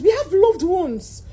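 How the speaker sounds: slow, tearful plea breaking into crying. Real, not acted. Student telling jamb her family believes in her, crying. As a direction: let the words crack with tears.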